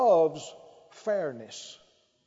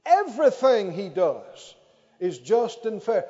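louder "Everything he does is just and fair." recited; loud recitation; 5 dB louder than usual. Shown as a demonstration. Preacher leads the congregation, louder. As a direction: call out the verse. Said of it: "say that out loud".

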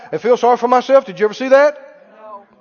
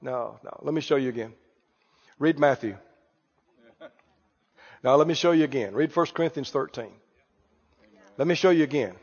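lower, softer, gently correcting; a teacher kindly showing it once more; patient correcting master; 8 semitones lower, 8 dB quieter than usual. Acted. Master patiently correcting his student, low and soft. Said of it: "he goes".

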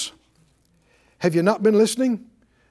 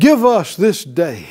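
slow, lingering, louder prayer line; slow prayer lead; 3 semitones lower, 6 dB louder than usual. Shown as a demonstration. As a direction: lead the line slowly for the echo. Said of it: "Say it out loud".

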